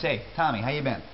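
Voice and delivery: quick how you been, words run together; clipped New York greeting. Shown as a demonstration. Teacher gives the New York form of how have you been, clipped.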